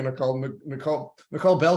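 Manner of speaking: repeating the name, stumbling; stuttering. Real, not acted. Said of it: "I'm stuttering here".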